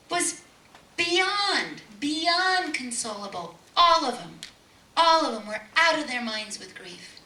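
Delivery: impassioned. Real, not acted. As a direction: drive home the family's despair. Grieving family described.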